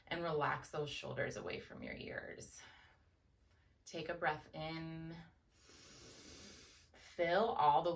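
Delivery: measured guided breathing with long pauses; calm meditation teacher, lingering on cues. Real, not acted. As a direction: lead them gently through each breath, unhurried.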